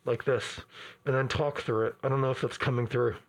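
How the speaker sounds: talking through a burp; words pushed out on a burp. Real, not acted. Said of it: "pardon me while I burp into the, my arm".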